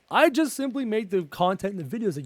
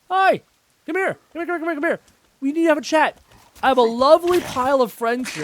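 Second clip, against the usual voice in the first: high falsetto British housewife, man playing a woman; Monty Python British woman; 8 semitones higher, 6 dB louder than usual. Luring enemies to a pile of friends, Monty Python British woman. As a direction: call out in a loud, hammed-up British lady falsetto. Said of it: "talk like one of those British women".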